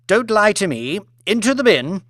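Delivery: high curt command; imperious order. Acted. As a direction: order him in without pity. Lady Elizabeth orders chef into bin.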